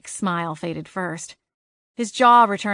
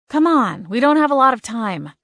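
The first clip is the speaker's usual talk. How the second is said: urgent; 5 semitones higher, 6 dB louder than usual. Acted. Urging the struggling leprechaun.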